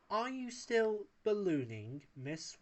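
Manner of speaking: innocent question. A narrator's reading. Wallace innocently asks Paella about ballooning. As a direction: ask it sweetly, meaning no harm. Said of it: "Wallace asked innocently".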